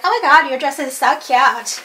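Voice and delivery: lightly put-on gushing American accent; playful mock American compliment. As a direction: toss off the American-girl impression as an in-joke. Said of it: "we're like".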